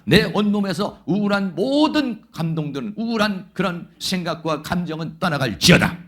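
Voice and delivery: loud, firm proclaiming of each line; a forceful sermon-style prayer against depression; declaration prayer. Shown as a demonstration. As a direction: command the gloom out like a preacher. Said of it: "선포 기도를 해야 됩니다".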